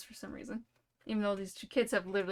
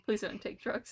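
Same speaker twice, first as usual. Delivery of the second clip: "please don't take drugs." said sincerely, no joking; mean it as a real, plain plea with "please don't take drugs.". Shown as a demonstration. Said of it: "I'm just kidding. Please don't".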